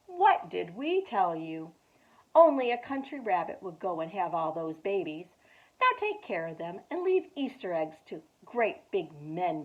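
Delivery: mocking rabbits. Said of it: "laughed and laughed, and they said".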